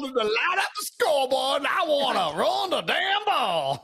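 slow, high, hammed-up Southern drawl as the coach; mock Southern accent for the coach. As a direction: stretch it out like a Southern football coach. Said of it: "in your Southern drawl".

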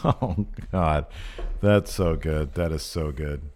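stifled laughter between words; fighting back the giggles; laughing. Real, not acted. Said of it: "Try not to laugh".

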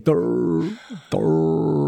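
singsong mock Irish; melodious Irish accent. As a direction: savour each Irish-accented duh. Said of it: "I love when they say".

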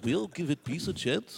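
Russian-tinged British attempt; botched Liverpool accent drifting Russian; lightly put-on Russian Liverpudlian; a singer. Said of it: it's a Russian version of a singer.

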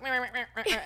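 high, wordless flustered meh sounds; flustered meh babble. Retold or imitated. Shocked by his gift, flustered meh babbling. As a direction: stammer meh in panic. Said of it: "went into the, like, shock".

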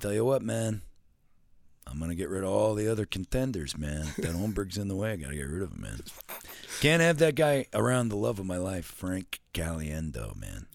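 hammed-up coach voice, lots of man; lightly voiced Gruden gushing; Jon Gruden impression. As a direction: loose Gruden imitation. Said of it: "Frank and John Gruden".

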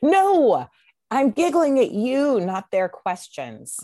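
loud, high, laughing denial; laughing protest. Real, not acted. To her co-host, a loud laughing denial.

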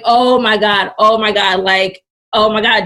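loud, mildly panicked exclamations; retold panic. Daughter hearing it's the head, retold loud panic. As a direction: repeat it loudly, a touch overwhelmed.

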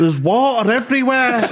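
high squeaky voice, breaking into laughter; giggling through a panicked fake voice; laughing high put-on voice. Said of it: "I'm like".

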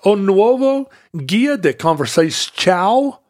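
self-conscious Portuguese pronunciation; a hesitant Portuguese title; attempted Portuguese. Shown as a demonstration. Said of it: "my Portuguese accent is terrible".

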